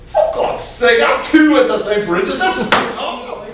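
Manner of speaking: high, amazed Irish lilt; hammed-up excited Irish brogue; Irish accent. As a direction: play an Irishman thrilled at the coincidence. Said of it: "a little bit of an Irish accent".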